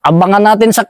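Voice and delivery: mock yell of enemy troops calling out; retelling how the enemy shouted to ambush him at the bridge; retold shouting. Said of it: "nagsisigaw man sila".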